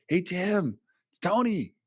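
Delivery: high but flat, unsexy greeting; a lifeless take on the DJ hello; dull radio voice. Shown as a demonstration. Radio host showing the podcaster the boring way to greet. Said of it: "That's not a very sexy or fun radio voice".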